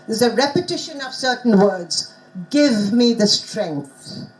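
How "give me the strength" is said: "Give me the strength" slow, with short vowels in "Give" and "strength". Shown as a demonstration. Teacher modelling short vowels for learners, "Give me the strength" slow and measured. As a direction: recite "Give me the strength" slowly, falling at the end. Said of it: "teaching them the short vowels".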